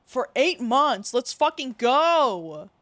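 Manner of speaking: slow, hyped-up cheer; excited cheer. Real, not acted. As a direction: celebrate it loudly. Cheering sub milestone.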